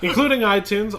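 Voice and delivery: repeats the barker line through laughter; laughing. Real, not acted. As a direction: laugh while you say it.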